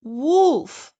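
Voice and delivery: high, loud cry of "Help! Wolf!"; shouting for help. Acted. Red Riding Hood runs from the wolf shouting for help, loud. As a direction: scream for help as you run.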